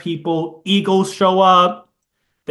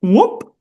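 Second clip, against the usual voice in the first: a high, louder whoop; imitated ring whoop; 5 semitones higher, 5 dB louder than usual. Shown as a demonstration. To a friend, imitating the ring sound with a whoop. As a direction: chirp a little whoop like the ring vanishing. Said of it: "It's like that".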